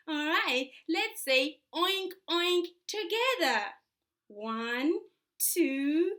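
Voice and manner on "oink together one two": put-on bright, sing-song toddler voice; reading to a toddler. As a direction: coax a small child along. Animal sounds to a toddler.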